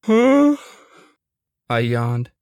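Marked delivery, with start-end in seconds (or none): 0.0-0.6 confused huh. Acted. Waking up confused.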